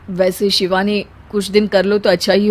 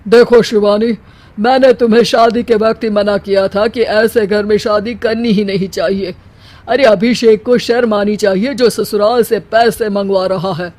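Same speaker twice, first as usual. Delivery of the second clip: stern scolding. Acted. Father scolds daughter on phone.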